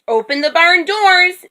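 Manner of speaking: excited, high-pitched yell; storybook yell. A narrator's reading. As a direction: call out an order across the barn. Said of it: "Minnie yelled".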